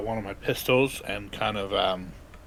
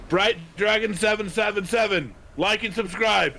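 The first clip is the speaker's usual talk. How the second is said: hero catchphrase voice; 8 semitones higher, 3 dB louder than usual. Acted. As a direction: sign off like a streamer hero. Vigilante calls out to victim.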